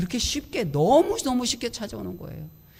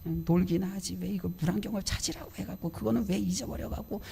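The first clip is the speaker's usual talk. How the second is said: retold inner grumbling. Preacher replaying his silent complaint about the goggles, mildly exasperated. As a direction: sigh into a mild mock grumble. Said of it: "불평이 막 입은 이만큼 나와갖고 속으로".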